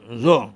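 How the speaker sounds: زو with a plain buzzing z; zayin-like زو; turned into zayin. Shown as a demonstration.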